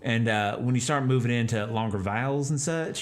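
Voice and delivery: big, slow East Texan way of speaking; East Texas accent. Shown as a demonstration. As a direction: drop the chin, stretch vowels like East Texas. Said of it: "a little bit more on the slower side".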